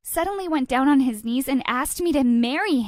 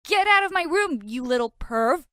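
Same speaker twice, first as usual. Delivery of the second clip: defensive; 4 semitones higher than usual. Acted. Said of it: "defensively said".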